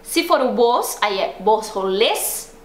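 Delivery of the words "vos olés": slow model phrase, rising at the end; careful classroom recitation, lifted ending; repeat-after-me drill. Shown as a demonstration. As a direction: model it slowly for learners to copy. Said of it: "repete lá".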